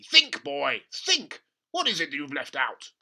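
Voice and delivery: loud, insistent; a pushy dad, loud; urgent father. Acted. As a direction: push the boy to remember. Father urging.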